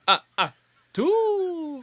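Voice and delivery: high, slow, drawn-out count; vampire Count voice. Pretend.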